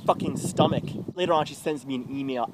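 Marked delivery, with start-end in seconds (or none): 0.1-0.8 loud, raised-pitch disgust; angry outburst. Acted. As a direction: spit out the curses in anger. Angry rant at people.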